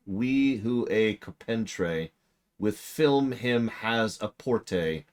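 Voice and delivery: slow, halting Middle English recitation, lightly accented; Middle English reading. Shown as a demonstration. Streamer answers a chat question by slowly reciting Middle English. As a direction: sound out old Middle English verse very slowly. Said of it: "I don't even know what that accent is".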